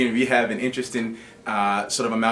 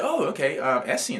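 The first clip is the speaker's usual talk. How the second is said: higher, lightly voiced lady trying out a new name; a lady on the bench sounding out the name, pitched up; imitating the lady; 5 semitones higher than usual. Lady on playground bench repeating the boy's name, higher and lightly imitated. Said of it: "and so she said".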